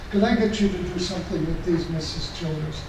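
hushed quick aside to a helper; quiet aside. Real, not acted. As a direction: drop out of the sermon to ask quietly.

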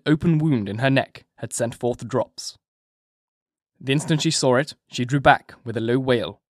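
ordinary delivery

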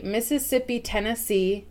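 "Mississippi" falling, then an even "Tennessee"; rhythmic cadence. Shown as a demonstration. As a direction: lead the listener through the words. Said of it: "So say".

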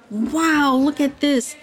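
high, bright-eyed wonder; amazed. A narrator's reading. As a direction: gasp it out in awe. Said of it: "Curry exclaimed in amazement".

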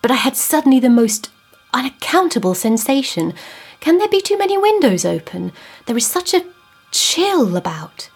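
rising, anxious questioning; a man spooked by a chill; uneasy, unsettled. Acted. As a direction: voice climbing high in unease. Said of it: "came from him hoarsely".

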